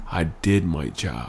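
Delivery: real emotion, drawn out slowly; slow it down, feeling the words; getting emotional. Real, not acted. Guest sums up his purpose to the host, getting emotional. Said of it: "You're getting emotional again".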